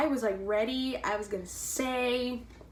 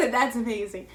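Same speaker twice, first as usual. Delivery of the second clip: a laugh running into the words; 3 dB louder than usual. Real, not acted. Quoting her reply to a fan, laughing.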